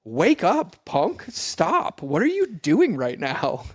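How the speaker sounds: mock wake-up call. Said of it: "and then I'm like".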